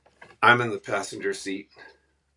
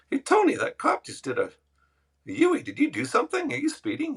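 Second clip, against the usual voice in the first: much higher, mock-panicked warning; mock alarm. Prankster on the phone fakes panic to the driver, much higher pitch. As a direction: fake alarm to spook the driver. Fake alarm to fool Tony.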